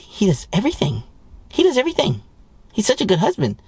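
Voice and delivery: put-on high gushing girlfriend talk; bragging wife voice. Wife bragging to her girlfriends, in a high gushing voice. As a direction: gush about your husband in a high voice. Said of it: "to say to your girlfriends".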